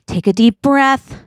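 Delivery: slow, soothing mock coaching; mock calm breathing coach. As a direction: talk them down gently, slowly. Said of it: "it's a calming scene".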